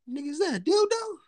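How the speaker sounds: high-pitched, retold shock; mock-stunned, voice up high; shocked disbelief. Retelling his reaction to the shop shelf, shocked.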